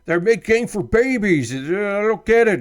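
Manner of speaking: high-pitched rant mocking angry internet complainers; mock outrage. Streamer mimicking angry people online, mock-outraged whine. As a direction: imitate an indignant whiner, pitched well up. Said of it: "people being like".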